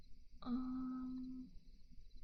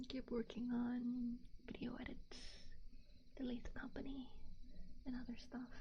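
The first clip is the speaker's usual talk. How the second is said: whispering. Real, not acted. Whispers through the stream.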